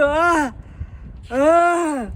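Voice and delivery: loud building ah before a sneeze; big loud gasping ah of an almost-sneeze; loud elephant about to sneeze; sneeze wind-up. Acted.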